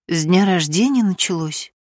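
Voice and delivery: ordinary delivery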